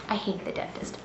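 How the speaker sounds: weary sigh. Real, not acted. Patient telling viewers, sighing softly. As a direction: let it out with a tired sigh. Sigh after long complaint.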